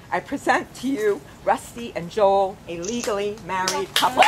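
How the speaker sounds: proud, rising declaration to the crowd; joyful announcement. Real, not acted. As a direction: announce the newlyweds with a cheer. Officiant announces the married couple.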